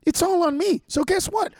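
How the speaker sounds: stern, then blow up at the end; parent's authority. Pretend. Parent to kid who won't get in the car, building to a shout. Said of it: "put your authority out and go".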